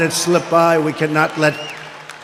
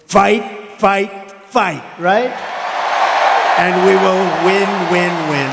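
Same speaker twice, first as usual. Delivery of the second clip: rousing rally cry to the crowd; rally speech. Real, not acted. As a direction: build the crowd up, fight fight fight. Rally call to fight and win.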